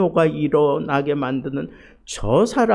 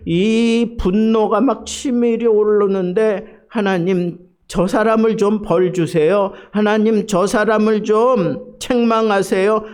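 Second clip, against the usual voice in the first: 분노의 기도; 4 semitones higher, 3 dB louder than usual. Retold or imitated. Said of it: "막 분노의 기도를".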